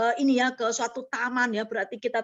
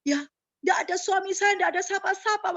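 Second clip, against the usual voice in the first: retold plea; 8 semitones higher than usual. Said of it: "saya katakan begitu".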